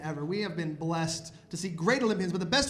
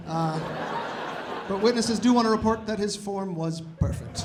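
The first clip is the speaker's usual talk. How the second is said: mock news report. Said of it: "What would that news report even sound like".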